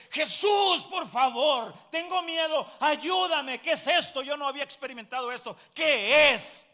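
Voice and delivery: high, loud cries of panic; reenacted frightened scream. New convert crying to Jesus at seeing demons, reenacted terrified shout. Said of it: "Grité de miedo y grité".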